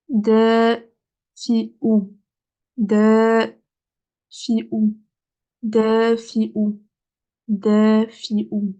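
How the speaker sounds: dafi'u said clearly, repeated for students; teacher repeating dafi'u for learners; 1 repeated model word. Shown as a demonstration. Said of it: "teacher models word repeatedly".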